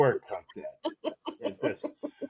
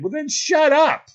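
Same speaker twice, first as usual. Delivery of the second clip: laughing; 12 semitones higher, 6 dB louder than usual. Retold or imitated. Punchline, laughing.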